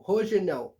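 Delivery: "Rogenel" with h-like R and final L as a w sound; "Rogenel" as "ho-zhe-NEW"; Portuguese pronunciation. Shown as a demonstration. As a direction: say "Rogenel" the Brazilian way, starting "ho", ending "-ew". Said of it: "Em francês é Rogenel".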